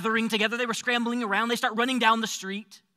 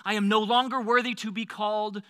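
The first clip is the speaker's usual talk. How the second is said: humble apology. Retold or imitated. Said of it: "my "I'm sorry" speech".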